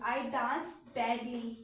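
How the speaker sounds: very slow, clumsy delivery; drawn-out mock clumsy read; badly, dragged out. Shown as a demonstration. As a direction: stretch the words out as if dancing badly. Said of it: "मैं कितना गंदा नाच रही हूँ".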